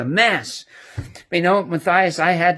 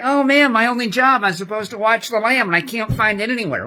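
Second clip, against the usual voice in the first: mock dismay, raised pitch; imitated upset kid; 3 semitones higher than usual. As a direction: lightly act out a distressed kid. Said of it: "he was so upset".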